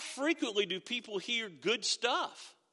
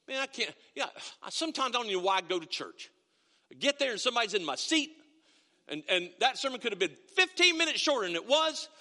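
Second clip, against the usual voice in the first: grumbling churchgoer. Retold or imitated. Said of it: "you sitting there going".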